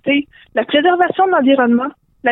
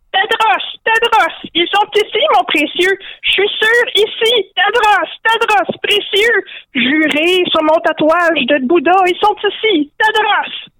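high-pitched, agitated creature voice; frantic Gollum-like creature; 8 semitones higher, slower than usual. Acted. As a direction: squeal it high and insistent, like an obsessed little creature. (voix aiguë de créature obsédée)

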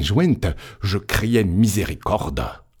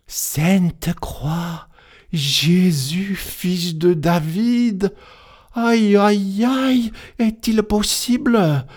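much higher, slow wailing aïe aïe; wailing lament; 10 semitones higher, slower than usual. Acted. Priest lamenting to the angel over his lost flock, a high drawn-out wail. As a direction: wail it out as the curé's world collapses. Curé wailing at the terrible news.

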